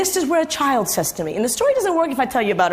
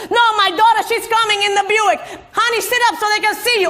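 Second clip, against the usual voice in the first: a hint of a cranky old woman guarding a parking spot; cronish voice; 8 semitones higher than usual. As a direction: bark it like a bossy old crone. Mother voiced defending the spot.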